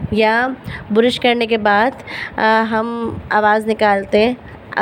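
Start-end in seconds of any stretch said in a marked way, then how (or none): 4.8-4.8 airy h pushed from the mouth; breathy ha. Shown as a demonstration. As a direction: breathe out as if cleaning glasses. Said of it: "ہوا منہ سے نکالتے ہیں".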